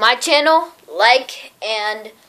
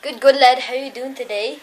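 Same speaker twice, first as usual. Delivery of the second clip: lightly put-on Scottish accent; amateur attempt at a Scottish accent. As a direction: try a Scottish lad's greeting.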